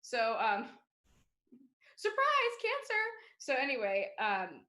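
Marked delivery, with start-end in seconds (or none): 1.9-3.0 high, bright surprise shout; mock surprise reveal. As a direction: announce it like a party. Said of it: "mock announcement".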